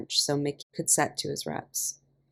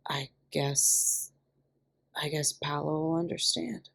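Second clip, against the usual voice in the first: hesitant backing down; 3 dB quieter, slower than usual. A narrator's reading. Stunned guy backing down.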